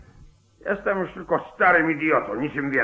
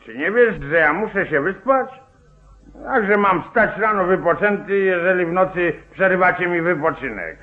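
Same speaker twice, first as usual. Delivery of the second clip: louder, higher, grumpy protest at being woken; irritated outburst; 3 semitones higher, 6 dB louder than usual. Acted. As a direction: complain loudly like a sleepy grouch. Sheriff woken at night, grumbling. (rozdrażniony, głośny protest zaspanego szeryfa)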